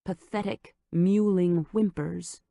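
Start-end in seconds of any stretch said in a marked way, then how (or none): none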